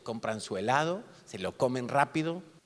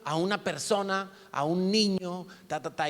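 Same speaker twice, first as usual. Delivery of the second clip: higher, louder drill-sergeant speech; a bit of a sergeant; 6 semitones higher, 6 dB louder than usual. Retold or imitated. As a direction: lay down the law like a camp sergeant. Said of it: "como un poquito sargento".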